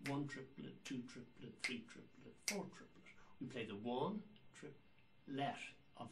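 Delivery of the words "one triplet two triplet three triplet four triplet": counting triplets. Shown as a demonstration. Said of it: "and we count triplets".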